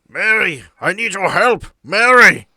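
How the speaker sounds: high, loud screaming for Mary; desperate scream. Acted. Doctor trapped in vines screams for Mary, panicked scream. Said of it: "he starts to scream".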